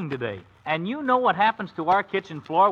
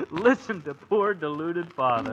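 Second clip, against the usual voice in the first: laughing tease. Acted. Son teasing father.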